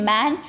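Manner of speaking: 'man' with an open æ in the middle; pronunciation demo. Shown as a demonstration. Teacher pointing out the middle sound of man, pronunciation demo. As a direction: stress the wide middle vowel of 'man'. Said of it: "ए बोलेगा बीच में".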